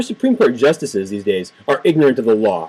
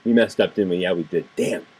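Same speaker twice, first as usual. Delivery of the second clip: mock justices; 5 semitones lower, 3 dB quieter than usual. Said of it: "they're gonna go".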